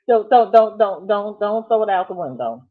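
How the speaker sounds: playful pleading. Real, not acted. Host teasing viewer about the computer: loud playful pleading. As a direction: beg her, half-joking, to stop.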